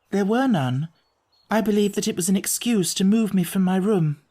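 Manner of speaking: a hint of a worried young woman; lightly voiced young lady. Miss Stoner explaining the false repairs, lightly voiced.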